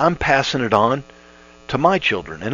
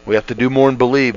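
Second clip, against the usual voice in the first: faster restatement, more punched; quicker repeat; faster than usual. Shown as a demonstration. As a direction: rush the repeat with urgency. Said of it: "Now, we have to do more and believe".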